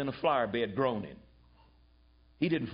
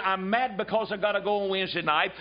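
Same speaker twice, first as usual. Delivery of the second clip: mock whining; 4 semitones higher than usual. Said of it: "this nonchalant, indifferent".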